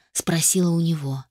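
ordinary delivery, nothing marked

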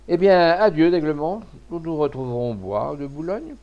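bright loud farewell from the proud duchess; coquettish duchess. A narrator's reading. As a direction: call out the goodbye like a seductive duchess. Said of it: "prononcés par la sirène".

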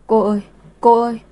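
put-on a small child wailing for help at night; crying child calling. Child wails to neighbour for help at night, crying call. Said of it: "Đứa bé khóc gọi cô, tiếng khóc rất lớn".

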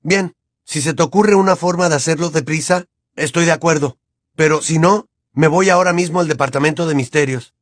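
Harry giving Hermione an ultimatum; a touch of aggression; aggressive tone. Acted. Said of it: "en tono agresivo".

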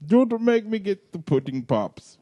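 hammed-up sitcom father telling off his son; mock-stern TV dad impression; Bill Cosby. Scolding Theo for talking back, mock-stern sitcom dad. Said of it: "You're gonna give old Cosby a hernia".

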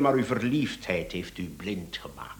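low, soft and voiceless; hushed accusation. Acted. Inspector quietly accuses the husband of being blinded, hushed. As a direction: lean in and hiss the charge.

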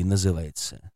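ordinary delivery

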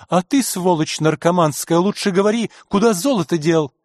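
гневный окрик. Acted. Дама ругает грабителя.

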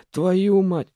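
выше и громче, с досадой; выругайся в сердцах; отчаянная ругань. Acted. Араф ругается в отчаянии. (Араф в ужасе от новости: громкая ругань)

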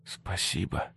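breathy fading whisper of thanks. Acted. Antonina thanks the children as she crumbles away, whispered. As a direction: barely breathe the word. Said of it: "прошептала она".

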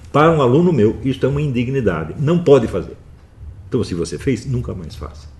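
loud, high-pitched stern reprimand; repreensão severa. Real, not acted. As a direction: lay down the law to a pupil. Reprimands students, forbidding such work. (bronca severa de professor, em voz alta)

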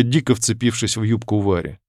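ordinary delivery

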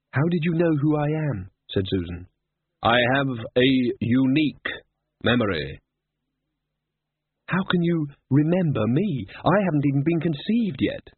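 put-on sharp, doubting girl; Susan.

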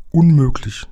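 high, emphatic exclamation; called out. A narrator's reading. Giant refuses to believe Lukas, high exclamation. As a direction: cry it out in disbelief. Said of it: "rief der Scheinriese".

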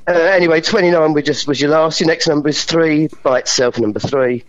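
steady bingo calling, number by number; bingo caller. Shown as a demonstration. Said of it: "Do some bingo caller numbers for me".

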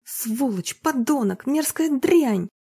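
rising, slow furious curses; woman curses her husband in the car; angry outburst. Acted. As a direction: spit out each insult.

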